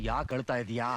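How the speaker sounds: a father pressing his son for an answer; stern insistence; firm repeated question. Acted. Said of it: "ನಿನ್ನೆ ಕೇಳ್ತಾ ಇರೋದು".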